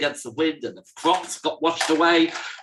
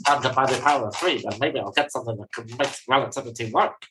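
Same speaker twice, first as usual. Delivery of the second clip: lightly voiced mathematician, quick muttered working-out; a hint of a boffin reckoning fast; pretend mathematician; 2 semitones lower, faster than usual. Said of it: "pretending that you're a mathematician trying to work out the equation".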